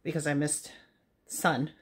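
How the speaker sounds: slightly breathless while walking; out of breath. Real, not acted. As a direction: talk while walking, a little winded. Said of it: "a little out of breath because I'm, like, working out".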